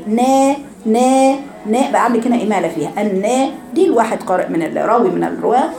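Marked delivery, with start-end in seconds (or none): 0.1-1.3 نا stretched very slowly with a tilted vowel; teacher voicing the imala نا for students; slanted na demo. Shown as a demonstration. Teacher slowly demos a tilted نا. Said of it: "خلي بقى صوت النون إيه".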